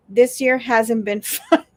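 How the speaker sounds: slow read breaking into a laugh; laughing while reading. Real, not acted. Host reading a viewer comment, breaking into laughter. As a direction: start straight, crack up on the last word.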